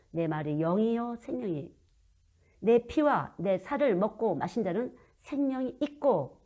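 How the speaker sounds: slow, solemn recitation of the verse; scripture reading. Acted. Preacher slowly reciting scripture to congregation. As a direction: read it slowly like holy writ.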